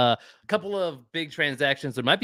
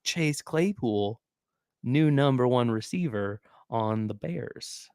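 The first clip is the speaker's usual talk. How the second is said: hype announcer voice; 2 semitones lower, 3 dB quieter, slower than usual. Retold or imitated. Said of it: "They were like".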